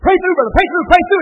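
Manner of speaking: loud, high chanted urging; egging a seeker on, pushing hard; mock urging. Preacher mocks a Pentecostal coach, loud and high.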